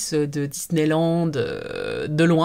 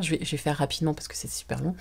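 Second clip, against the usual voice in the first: aparté rapide chuchoté; 5 dB quieter, much faster than usual. Real, not acted. A quick whispered aside.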